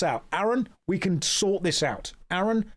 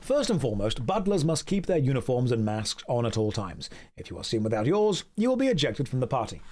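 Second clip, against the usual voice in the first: stern low-voiced head butler; low butler host voice; 4 semitones lower than usual. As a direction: lay down the party rules, low and formal. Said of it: "I'm gonna do the voices for every character".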